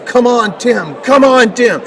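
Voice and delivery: father cheering his son at a track meet, mock yell; retold cheering yell. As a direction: cheer him on from the track side. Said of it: "he's yelling at the top of his lungs".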